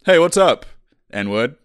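calling out a jeering greeting; loud taunt. Retold or imitated. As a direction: shout it across the hallway. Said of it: "they would just go".

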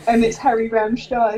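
band name said as Harry Rammstein; joke-mangle the band name into Harry Rammstein; mispronunciation. Shown as a demonstration. Friend joking about mangling the band name, playful. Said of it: "I keep calling it Harry Rammstein".

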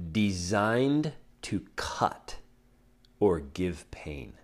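slow hushed whisper; slow dramatic whisper reading the definition. Shown as a demonstration. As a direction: let the words cut, whispered slowly.

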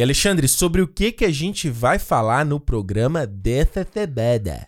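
talking with a burned tongue. Real, not acted. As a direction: speak carefully around a sore tongue. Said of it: "eu tô falando um pouco assim porque eu queimei minha língua".

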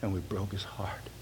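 wife's quiet grief whispered to the congregation; whispered line. Retold or imitated. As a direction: breathe it out like a confession. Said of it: "And his lady said".

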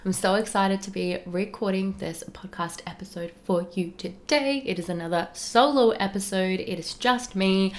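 hoarse croaky voice from a cold; croaky, with creaky starts. Real, not acted. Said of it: "and my croaky voice".

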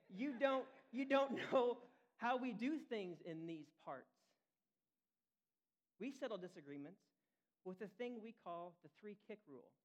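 put-on a folksy Southern old farmer laying down the local rules; southern accent. Old farmer telling the judge the three-kick rule in a Southern accent. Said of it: "I don't know why I have a southern".

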